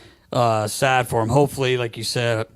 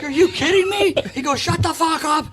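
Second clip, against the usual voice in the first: high, loud mock outburst; imitated angry retort; 3 dB louder than usual. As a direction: snap back at the heckler in a raised voice. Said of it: "He's like".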